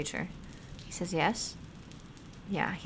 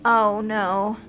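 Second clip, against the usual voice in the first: higher, louder rising no-nos; dismayed pleading; 3 semitones higher, 4 dB louder than usual. Real, not acted. Streamer watching the baby struggle, pleading no. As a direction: beg the story not to go there.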